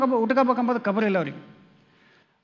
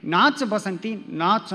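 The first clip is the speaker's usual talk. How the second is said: slow, lightly voiced film villain line; Gabbar Singh; 4 semitones lower, much slower than usual. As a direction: drag out ನಾಚ್ ಬಸಂತಿ ನಾಚ್ like a hint of Gabbar. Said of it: "Gabbar Singh ಏನು ಮಾಡ್ತಾನ". (ನಿಧಾನವಾಗಿ ಗಬ್ಬರ್ ಸಿಂಗ್ ಶೈಲಿಯ ಹಗುರ ಅನುಕರಣೆ)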